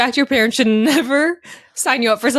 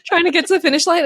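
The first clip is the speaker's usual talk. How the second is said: huffing and puffing; 8 semitones higher than usual. Retold or imitated. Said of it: "huffing and puffing".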